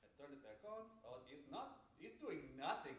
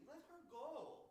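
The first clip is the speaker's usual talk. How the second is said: nicely; 9 semitones higher, slower than usual. Acted. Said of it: "I'm telling you this nicely".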